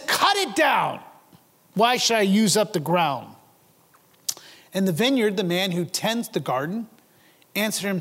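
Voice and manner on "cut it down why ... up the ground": angry order. Acted. A vineyard owner, frustrated with a barren tree, orders his worker harshly. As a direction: bark the order, out of patience. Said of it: "He's angry. He's frustrated".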